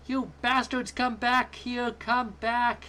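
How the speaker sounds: furious shout. A narrator's reading. Angry kid yells at fleeing spaceship. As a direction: scream after the leaving ship. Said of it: "frustratingly yelled".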